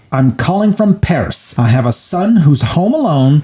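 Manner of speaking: a frantic mom, lightly imitated; upset mother. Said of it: "So she kind of gets upset now".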